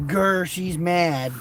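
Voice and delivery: slow mock growl. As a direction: drag it out like a pretend angry bear. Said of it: "Mom's mad".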